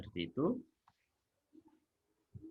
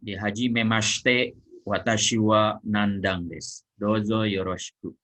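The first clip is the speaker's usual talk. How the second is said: dialogue reading; 5 dB louder than usual. Acted. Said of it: "dialog antara Nandang dan Tanaka".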